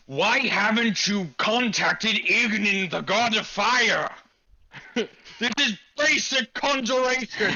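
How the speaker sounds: slow, haughty wizard voice; slow lecturing mage. Acted. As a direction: scold them like a snooty tutor. NPC lectures on summoning.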